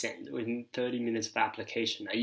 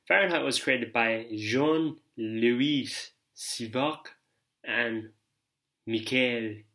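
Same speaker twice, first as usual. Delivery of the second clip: put-on French accent; 4 dB louder, slower than usual. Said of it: "where that French accent came from".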